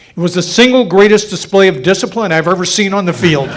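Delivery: can barely hold back the laugh; laughing through quote. Retold or imitated. Retelling the coach's praise to the audience, laughing.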